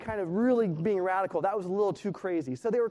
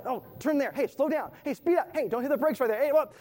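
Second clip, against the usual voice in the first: pitched-up nagging backseat driver; 5 semitones higher than usual. Retold or imitated. Husband nags girlfriend behind the wheel, pitched-up and fussy. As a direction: pester the driver with every tip. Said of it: "I was like".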